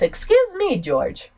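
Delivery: mock polite echo. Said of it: "No, please".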